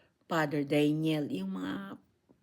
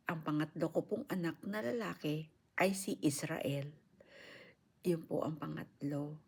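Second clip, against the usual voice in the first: after crying; 4 dB quieter than usual. Real, not acted. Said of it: "pasensya na po kung naiyak ako".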